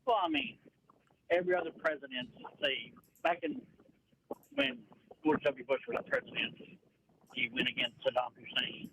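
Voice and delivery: muffled, like talking underwater. Real, not acted. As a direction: voice smothered as if under water. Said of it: "it sounds like you're underwater".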